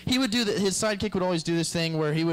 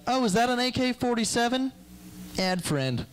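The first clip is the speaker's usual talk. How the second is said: mock gangster browsing; 8 semitones higher than usual. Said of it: "Was it like".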